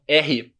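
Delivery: "r" scraped from the throat; guttural "r" demo; throaty French R. Shown as a demonstration. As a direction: make the "r" with the throat, not the tongue. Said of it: "r com a garganta".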